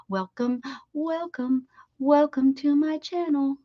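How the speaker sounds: rising chant of welcomes; sing-song welcome. Real, not acted. Welcoming viewers to her channel, lilting sing-song welcome. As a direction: lilt the welcomes upward.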